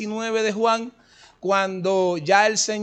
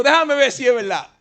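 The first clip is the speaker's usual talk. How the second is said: Tomás incrédulo; 5 semitones higher, 4 dB louder than usual. Retold or imitated. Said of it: "era tan freco era Tomás".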